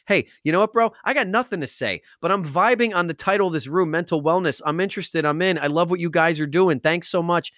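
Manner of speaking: easygoing bro chiming in; casual bro. Retold or imitated. Listener's voice in retold room.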